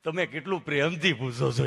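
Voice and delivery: low, halting with stuck hums; imitated tongue-tied patient; stammering friend. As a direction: struggle into each phrase. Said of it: "જીભ જલાય, સોંટે અટકે".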